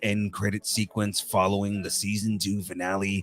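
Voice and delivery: movie guy voice. Pretend. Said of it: "in the movie guy voice".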